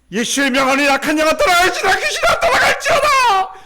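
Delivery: shouted command climbing very high; fervent exorcism prayer. Retold or imitated. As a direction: act out screaming the demon out. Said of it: "막 기도해서".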